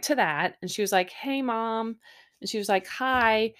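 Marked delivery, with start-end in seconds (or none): 1.1-2.0 understated hello, only slightly raised; casual greeting. Retold or imitated. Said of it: "very casual". 2.9-3.5 understated imitation of a hello; casual reply. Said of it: "very casual".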